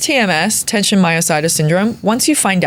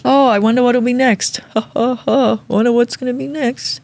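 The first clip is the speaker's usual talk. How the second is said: joking with a laugh; 5 semitones higher than usual. Retold or imitated. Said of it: "I make a joke to him".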